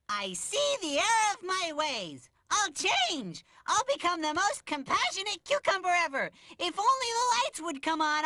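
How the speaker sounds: high, pleading vow of reform; melodramatic repentance. Acted. Larry begging for the lights to return, melodramatic. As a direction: overdo the desperate promise.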